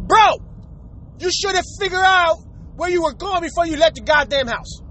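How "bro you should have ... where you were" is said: exasperated call-out. Acted. Driver scolding someone who's lost on the road, exasperated. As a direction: cry out at a clueless driver.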